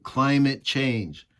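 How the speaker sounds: slow, sneering "climate change"; sarcastic scare quotes. Real, not acted. Mocking the government's reason for the shutdown, slow and sarcastic. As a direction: spell out "climate change" as if it's a joke.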